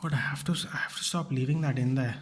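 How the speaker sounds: breathy self-reproach under his breath; whispering an annoyed note to himself; whispered to self. Real, not acted. Muttering to himself over an old clip, whispered.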